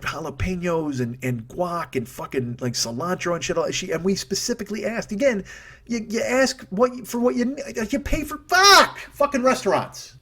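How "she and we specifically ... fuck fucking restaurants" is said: high, strained rant building to a shouted curse; exasperated outburst. Real, not acted. Paying diner ranting about a botched order, exasperated outburst. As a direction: sputter with frustration, then explode.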